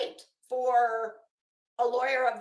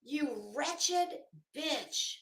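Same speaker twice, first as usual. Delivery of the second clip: muttered insult; 7 dB quieter, much slower than usual. Real, not acted. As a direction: spit it under your breath. Insulting Betty in a quiet aside.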